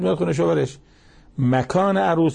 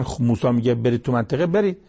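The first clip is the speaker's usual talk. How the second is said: retold rallying cry; 5 semitones higher than usual. Preacher retelling two pious men urging their people, mild rallying cry. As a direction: urge them on, imitating a mild outcry. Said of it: "نعره کشیدن".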